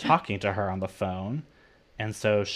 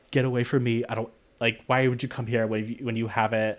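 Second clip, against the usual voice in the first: a mild retold panic, a little louder and rushed; a touch of mock panic at the sick visitor; freaking out; 3 dB louder, faster than usual. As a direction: back away in mock alarm, hurried. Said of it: "he just freaks out".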